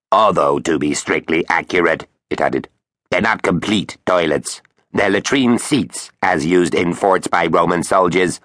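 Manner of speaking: pedantic robot voice; lightly voiced know-it-all machine; quacky robot voice. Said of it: "Its quacky robot voice".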